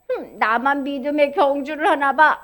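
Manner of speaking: lightly acted lonely self-pity; discouraged thought. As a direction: mope as if you're the only one. Voices a discouraged believer's thought.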